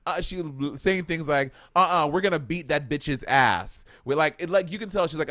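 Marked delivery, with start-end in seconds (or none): 1.8-3.9 mock tough talk in borrowed Black vernacular; imitated Black vernacular. Retelling Kim's threat to beat someone, imitated Black vernacular. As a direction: lightly imitate her put-on Black vernacular. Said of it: "adopting her vernacular to sound like a black girl".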